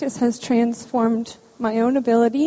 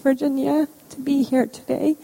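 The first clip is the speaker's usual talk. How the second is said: steadying herself through emotion; holding back sobs; 3 semitones higher than usual. Real, not acted. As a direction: voice tight with held-back tears. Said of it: "sorry, I get emotional".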